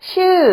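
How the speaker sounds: ชื่อ said carefully with a falling tone. Shown as a demonstration. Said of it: "the falling tone".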